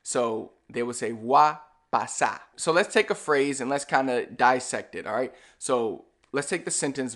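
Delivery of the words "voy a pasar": "Voy a" run into wa, "pasar" as pasá; "Voy a pasar" squeezed to wa pasá; endings dropped. Shown as a demonstration. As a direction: drop the final R of "pasar". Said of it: "completely just remove everything from the end".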